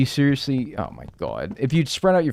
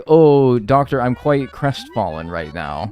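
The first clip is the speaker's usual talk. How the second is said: mock British patient. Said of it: "And it'll be like".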